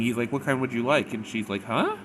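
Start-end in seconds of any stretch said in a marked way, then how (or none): 0.3-1.1 slightly raised, higher voice; repeating for poor hearing. Retold or imitated. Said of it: "he does the same thing". 1.6-2.0 high questioning huh, swooping up; sharply rising, puzzled squeak; hard-of-hearing daughter. Retold or imitated. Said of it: "daughter is hard of hearing".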